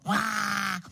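long level "waah"; leopard roar. A narrator's reading. Leopard wanting to look around, mock roar. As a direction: end with a held mock roar. Leopard roars after its answer.

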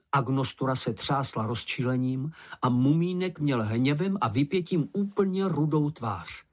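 plain reading voice

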